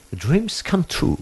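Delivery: high, slow British accent. Shown as a demonstration. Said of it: "z brytyjskim akcentem".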